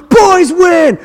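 loud, high victory yell; gloating cheer. Retold or imitated. Boys' coach celebrating over crying girlfriend, gloating shout. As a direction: crow over the losing team. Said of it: "And I'm like".

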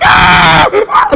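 loud imitated wail; mock pained scream. Girlfriend down on the ground, imitated screaming. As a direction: cry out as if badly hurt. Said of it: "And she's like".

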